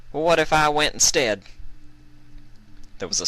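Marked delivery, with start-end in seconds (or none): 0.1-1.4 put-on high young mare voice. Applejack voiced in story.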